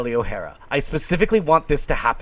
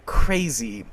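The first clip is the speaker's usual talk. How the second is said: excited buildup; 7 semitones higher, 5 dB louder, slower than usual. Real, not acted. Building to a big reveal.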